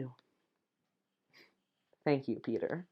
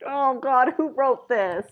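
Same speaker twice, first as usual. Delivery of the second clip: higher, louder embarrassed outburst; amused exasperated aside; cringing laugh; 7 semitones higher, 3 dB louder, slower than usual. Real, not acted. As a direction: react with mock horror to the line. Reader cringes at the text.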